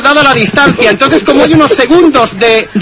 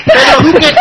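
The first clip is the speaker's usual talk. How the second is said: laughing. Real, not acted. Caller breaks into laughter.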